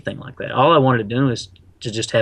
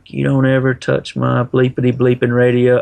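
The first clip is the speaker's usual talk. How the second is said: a mild mock yell at the coworker; half-hearted angry outburst, retold; 3 semitones higher, 5 dB louder than usual.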